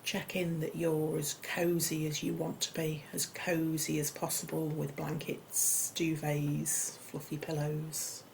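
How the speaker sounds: unhurried yoga nidra guidance with long pauses; guided meditation. Acted. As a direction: gently settle listeners into a comfortable position.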